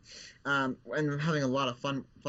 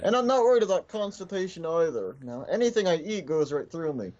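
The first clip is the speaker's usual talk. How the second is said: zombie voice; 3 semitones higher, 6 dB louder than usual. Acted. Ventriloquist voices Bill the zombie.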